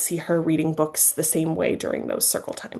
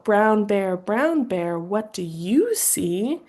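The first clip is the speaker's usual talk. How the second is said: put-on reading to children; slower than usual. Shown as a demonstration. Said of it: "And you can go".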